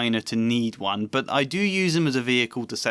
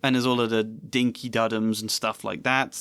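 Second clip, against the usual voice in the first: normal talking voice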